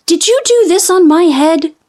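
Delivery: high, earnest little mole; little mole asking. A narrator's reading. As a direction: ask it like a small puzzled mole. Mole asks the goat.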